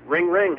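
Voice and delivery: silly phone-ring imitation; goofy ring ring. Shown as a demonstration. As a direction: ring it out like a buffoon. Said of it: "do the ringing sound like a, like a buffoon".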